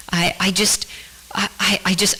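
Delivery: hushed, barely voiced, choking up; broken whisper. A broken whisper to God while kneeling by the bed. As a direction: whisper it through tears.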